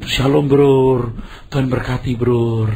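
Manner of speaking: slow, overly gentle pious greeting; mock humble greeting. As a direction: put on a humble preacher's voice, drawn out. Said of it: "Yang rendah hati itu".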